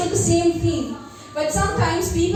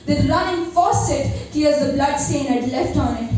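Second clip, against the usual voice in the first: poem recitation. Acted. Recites her poem Metanoia.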